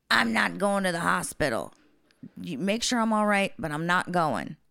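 emphatic, lightly voiced stubborn client; imitated stubborn refusal. Client refusing the paramedics' hospital trip, mock stubborn insistence. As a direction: dig your heels in, imitating him.

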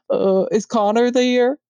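put-on thick southern accent. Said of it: "his accent came out so thick".

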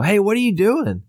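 put-on a sleepy boy raising his voice at his father in the tent. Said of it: "And I kinda go".

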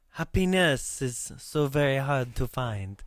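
put-on slow, breathy French-accented line. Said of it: "talking in that strange French accent".

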